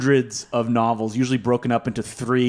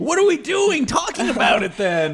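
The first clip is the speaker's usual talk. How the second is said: mock shock; 13 semitones higher than usual. Mock outrage at good movie.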